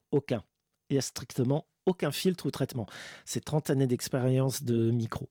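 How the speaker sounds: low, a hint of serial killer; lightly menacing low voice. Shown as a demonstration. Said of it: "ma voix de tueur en série".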